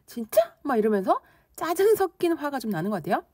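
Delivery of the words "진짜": doubting question, a touch annoyed; doubtful. Acted. Teacher acting out raised eyebrows with doubt, doubtful. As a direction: question it with mild suspicion. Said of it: "의심이 나는 거죠".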